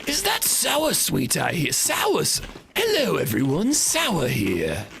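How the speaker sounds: high-pitched mock English lady accent; English Karen voice like an Oblivion character. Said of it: "Sounds like an English Karen".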